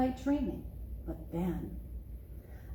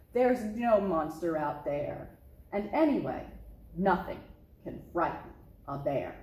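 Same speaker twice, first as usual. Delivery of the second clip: low, assured father bear voice; a dad proving there's nothing to fear; confident papa bear; 4 semitones lower than usual. Acted.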